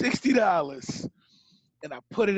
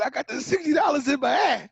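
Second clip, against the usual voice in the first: higher and louder, repeated so she hears; repeating himself louder after she says what; 6 semitones higher than usual. Retold or imitated. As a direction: say it again, louder, since she missed it.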